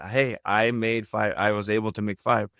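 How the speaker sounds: slightly lifted, positive report; inflection going up. Shown as a demonstration. Coach showing the better mindset, inflection going up. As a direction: stretch it out with a small lift, as if pleased. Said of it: "my voice went up a little bit".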